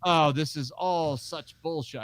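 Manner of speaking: put-on slow, half-hearted Australian accent as a singer; a weak stab at an Australian accent, slowed down; bad Australian accent. Mimicking a singer griping to Marc Maron, weak Australian accent. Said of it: "I can't do an Australian accent".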